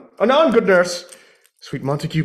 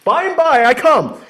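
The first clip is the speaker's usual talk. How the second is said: louder, higher call back; 9 semitones higher, 6 dB louder than usual. Acted. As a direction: shout back toward the house. Calling back to nurse.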